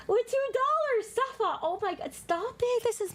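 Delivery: high-pitched squealing excitement; overwhelmed delight. Real, not acted. Streamer gets another silly-named donation, overwhelmed delighted squeal. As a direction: squeal as if it's too cute.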